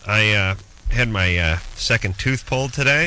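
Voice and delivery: drugged and drowsy after dental work; groggy from anesthesia. Real, not acted. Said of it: "You're high right now or something".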